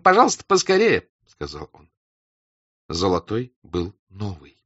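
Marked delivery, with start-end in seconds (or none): 0.0-1.1 high polite request. Acted. Telyanin asks servant.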